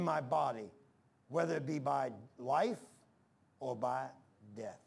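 slow, measured Bible reading; scripture reading. Real, not acted. Preacher reads Paul's words to the church, slow scripture reading. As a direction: read the verse out deliberately, phrase by phrase.

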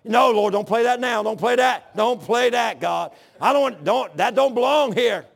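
lightly acted, insistent protest; mock panicked pleading. Embarrassed believer begs the Lord not to play it, mock pleading. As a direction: plead hurriedly, as if caught out.

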